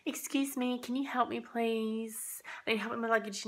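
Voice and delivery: overly sweet, making a point of asking; sweetly asking the reluctant guy for help with her luggage; pointedly polite ask. Retold or imitated. Pointedly asks reluctant stranger for help.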